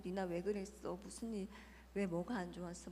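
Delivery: retold coaxing of an upset child; soothing. Mother comforting her child after an outburst, soothing. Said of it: "아이를 안아서 막 달래고".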